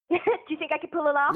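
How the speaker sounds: put-on British girl trying an American accent. Shown as a demonstration. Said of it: "I'm just gonna start talking American right now".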